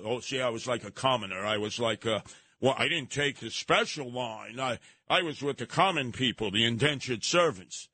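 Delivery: mock humble Beckham. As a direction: play the falsely humble celebrity. Mocking Beckham's humility.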